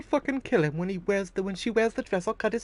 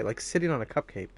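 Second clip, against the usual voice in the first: lower, softer repeat in disbelief; quiet mocking echo; 5 semitones lower, 3 dB quieter than usual. Real, not acted. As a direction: mutter it back incredulously. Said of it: "That's a really weird thing to say".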